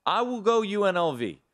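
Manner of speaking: fed up, finally getting a word in; exasperated. Real, not acted. Exasperated cutting in on cohost.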